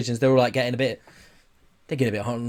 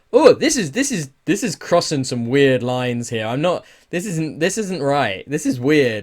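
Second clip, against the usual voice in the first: uncomfortable reaction; 3 dB louder than usual. Retold or imitated. Gamer recalling watching the trailer, a creeped-out cringe. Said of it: "And it was just like".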